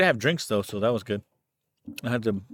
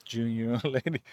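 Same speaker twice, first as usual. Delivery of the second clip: put-on Mexican accent, laughing; 5 dB quieter, much faster than usual. Echoing the mock accent, laughing.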